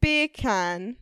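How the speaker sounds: beer can in a British accent sounding like Jamaican bacon; dropped-r British "Beer can". Shown as a demonstration. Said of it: "beer can with a British accent".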